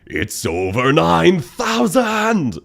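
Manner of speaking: slow, deliberately cringe dub shout; Dragon Ball dub. Shown as a demonstration. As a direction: ham up the anime dub line. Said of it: "intentionally cringe and slightly off, just like the original dub".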